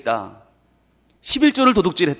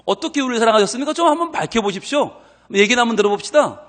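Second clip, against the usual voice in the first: fast, higher, indignant questioning; demanding challenge; 4 semitones higher than usual. Acted. People confronting God, a fast indignant demand. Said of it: "따지는 거예요".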